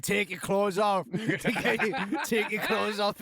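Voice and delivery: mild mock yell with laughter breaking in; slow, drawn-out imitation of someone yelling, laughing; retold scream. Friend egging him on to strip, mock screaming. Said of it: "Nikki's screaming at him".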